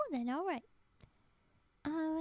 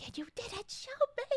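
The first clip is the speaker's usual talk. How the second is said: playful indignant whine; mock complaint; 7 semitones higher, 3 dB louder than usual. Streamer fakes hurt at friend for hiding emote, playful whine. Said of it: "I was gonna be like".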